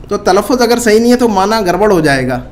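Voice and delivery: ordinary talk, nothing marked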